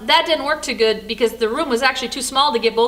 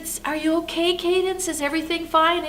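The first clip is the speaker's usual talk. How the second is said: gentle concern; 5 semitones higher, 3 dB quieter than usual. Retold or imitated. Grandma checks on crying child.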